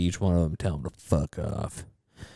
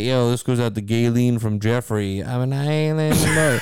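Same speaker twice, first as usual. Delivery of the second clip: Island Boy impression; 3 semitones higher, slower than usual. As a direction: do the paid shout-out voice. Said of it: "Some guy hired him to say".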